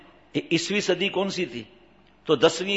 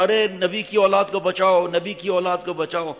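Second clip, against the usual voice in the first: raised, mock-desperate yell; imitated cries for help; 4 semitones higher, 3 dB louder than usual. Child slipped into the village pond, imitated yelling for rescue. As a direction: call out like a child in trouble, played for the story. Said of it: "اب چیخیں مار رہا ہے".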